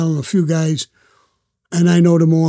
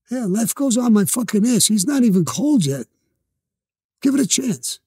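higher-pitched indignant rebuke, mildly performed; retold angry retort; 5 semitones higher than usual. Mild mock anger, Sammy scolding the dead man's widow. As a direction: throw the words back at her, scornful.

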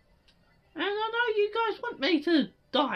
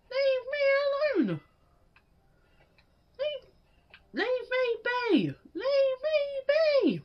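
slow pleading; 4 semitones higher, slower than usual. Real, not acted. Begging enemies to stop.

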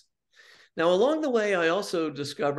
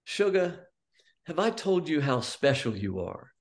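lightly voiced imitation of Mom's Cajun endearment; a hint of sweet Cajun. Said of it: "sweet Cajun voice".

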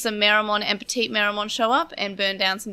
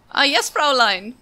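a slow, hammed-up German accent, a little higher and louder; awful German accent; 4 semitones higher, 5 dB louder than usual. Podcaster imitating the old Digimon character, bad slow German accent. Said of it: "That was my awful German accent".

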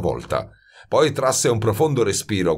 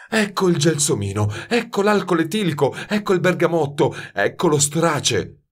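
higher, croaked list; croaking; 9 semitones higher than usual. A narrator's reading. Grenouille names bottles in the dark room, croaking. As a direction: croak out each name in turn. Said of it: "continuava a gracchiare Grenouille".

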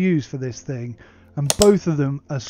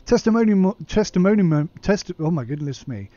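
tripping over the word, restarting louder; stumbling; 4 semitones higher, 4 dB louder than usual. Real, not acted. Reader botching testimonials from the website, stumbling. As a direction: fumble a long word, then give up exasperated.

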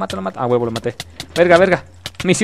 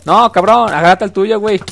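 angry shout; 6 semitones higher, 5 dB louder than usual. Real, not acted. Yelling at his teammate mid-fight.

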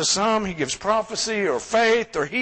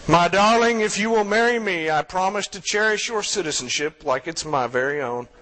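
lightly put-on sultry Latin accent; 2 semitones lower than usual. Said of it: "in a sultry Latin accent".

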